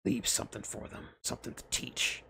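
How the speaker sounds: half-whispered, soft; quiet counsel to the dying father; hushed advice. A narrator's reading. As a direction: lean in and murmur it. Voiced figure, unvoiced soft.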